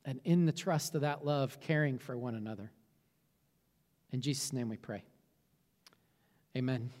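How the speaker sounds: hushed pastoral prayer fading to a murmur. Acted. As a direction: pray aloud for the congregation, gently.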